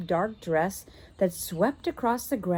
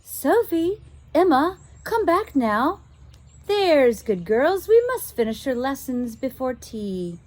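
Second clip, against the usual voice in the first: calling governess; 6 semitones higher, 5 dB louder than usual. Acted. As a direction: call the girls back to their lessons. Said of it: "a woman's voice was calling".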